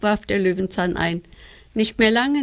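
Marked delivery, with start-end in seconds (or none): 1.7-2.4 cheeky giggling. A narrator's reading. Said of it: "mit einem frechen Kichern".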